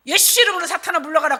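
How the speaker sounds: loud, high exorcising command; forceful acted order to Satan; commanding rebuke. Preacher drives Satan away in prayer, commanding.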